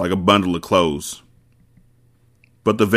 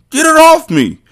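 even higher choked, garbled plea; strangled panic, pitched up; 7 dB louder than usual. Acted. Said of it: "Poke said in a garbled voice".

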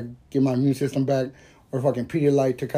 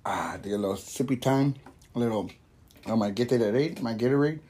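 whisper; 3 semitones lower, 6 dB quieter than usual. Real, not acted. Quiet aside before drinking.

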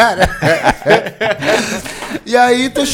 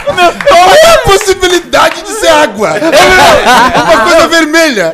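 raised, high-pitched exasperated protest; indignant protest; 6 semitones higher, 4 dB louder than usual. Real, not acted. Friend protesting red juice could never be water, indignant. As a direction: protest it high, in comic outrage. Loud comic outrage over water question.

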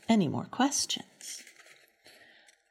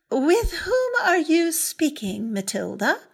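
stern neighbor; 7 semitones higher, 4 dB louder than usual. Acted. Neighbor questioning Matilda.

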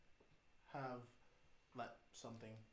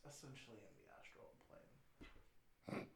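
hushed; 7 dB quieter than usual. Real, not acted. Hushed confession of astral trip.

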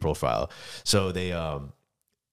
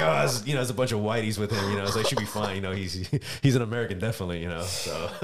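mock cop reasoning. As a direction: play the relieved cop, a bit up. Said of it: "they're like".

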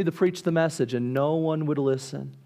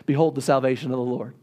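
lower, quicker, calm pronouncement; voice of God; 4 semitones lower, faster than usual. Acted. God calmly answering the frightened Israelites, lower voice. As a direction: answer with calm divine authority.

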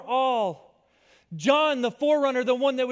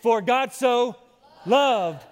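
louder, shouted declaration; said with belief; 5 dB louder, slower than usual. Shown as a demonstration. Pastor models believing it for the congregation, loud. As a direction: proclaim it like you mean it. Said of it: "you gotta say it like you believe it".

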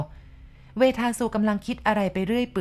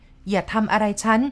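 screaming for help; 5 semitones higher than usual. Acted. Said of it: "ร้องลั่น". (ร้องลั่นขอความช่วยเหลือ)

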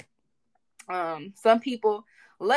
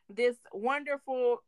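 "wonderful" drawn out slowly; slow, pointed "wonderful"; stress on wonderful; slower than usual. Real, not acted. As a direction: linger on the word "wonderful" for emphasis. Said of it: "Emphasis on wonderful".

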